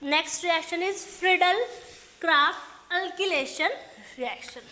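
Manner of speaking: slow, word-by-word note dictation. Shown as a demonstration. Teacher dictating notes to the class, slow and deliberate. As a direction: spell it out slowly so students can write.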